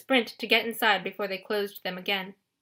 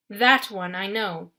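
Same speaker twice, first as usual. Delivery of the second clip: low growl; slower than usual. Acted. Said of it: "the general growled".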